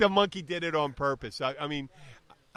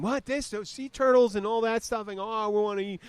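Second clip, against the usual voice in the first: mock excited guy; 8 semitones higher than usual. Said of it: "And he's going".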